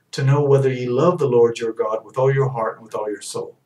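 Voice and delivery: measured, solemn scripture reading. Acted. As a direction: read it like holy writ.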